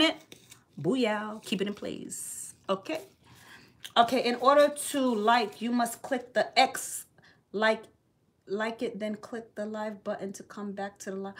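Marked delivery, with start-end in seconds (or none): 4.0-11.3 soft mumbled reading of a comment; reading to herself. Real, not acted. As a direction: read it half under your breath.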